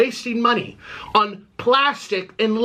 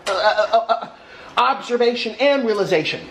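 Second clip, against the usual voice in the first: laughing; 3 semitones higher than usual. Real, not acted. Mocking laugh at logic.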